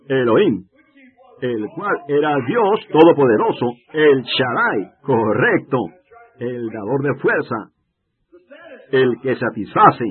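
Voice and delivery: slow and loud, each name hammered; booming measured proclamation; preaching proclamation. Real, not acted. Preacher proclaims names of God.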